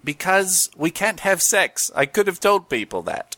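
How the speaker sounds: a hint of a Cockney gecko, slowing down; playing the insurance gecko, only lightly put on; lightly voiced Geico Gecko. Answering a mock interview as the Geico Gecko, lightly voiced. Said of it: "Geico Gecko".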